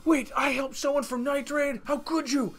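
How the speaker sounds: high-pitched, surprised girl imitation; high mock girl voice. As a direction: squeak it like an anime girl. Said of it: "She's gonna be like".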